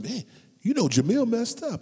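high, loud gossipy report; hammed-up tattletale; gossiping churchgoer. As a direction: someone bringing news about Jamil. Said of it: "somebody comes and".

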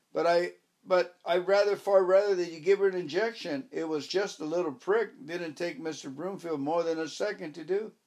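insistent landlady begging for the injection; pleading old lady. Acted. Mrs Booby pleads with vet.

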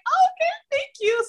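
very high-pitched retold surprise; flustered surprise. Guest retelling accepting the podcast invitation, flustered surprise. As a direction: act out a stunned, squeaky acceptance. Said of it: "I was so shocked when you asked me".

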